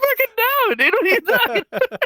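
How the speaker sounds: high, squeaky denial; incredulous, high-pitched mock objection; retold indignant protest. Acted protest to buddy's teasing.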